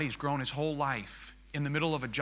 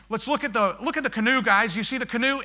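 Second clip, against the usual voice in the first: loud, raised tour-guide enthusiasm; excited urging; 7 semitones higher, 6 dB louder than usual. Retold or imitated. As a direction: urge them to look right now. Urging passengers to see canoe.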